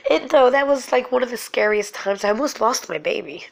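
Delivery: tearful, breaking into a small laugh; real crying. Real, not acted. Mother who almost lost her baby, crying as she tells it. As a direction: talk through tears about a near loss. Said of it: "I'm sorry, I started crying".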